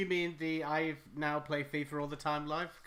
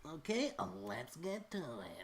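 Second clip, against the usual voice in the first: YouTuber voice; 6 dB quieter than usual. Retold or imitated. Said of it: "everyone's like".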